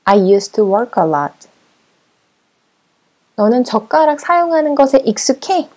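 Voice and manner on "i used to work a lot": very slow, clear model reading for learners; slow model sentence. Shown as a demonstration. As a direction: say each word slowly so students can repeat. Teacher models the sentence slowly.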